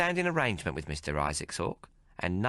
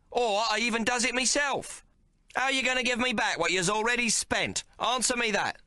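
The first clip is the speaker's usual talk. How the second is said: furious Maggie. A narrator's reading. Maggie cursing the tailor for cheating, furious. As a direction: tear into him.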